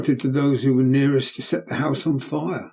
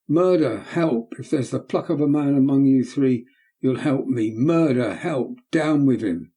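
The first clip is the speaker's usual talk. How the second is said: put-on a boy's defiant outburst, pitched up; growing more and more worked up; excited boy. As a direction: fearless boy crying out to the men. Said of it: "becoming more and more excited".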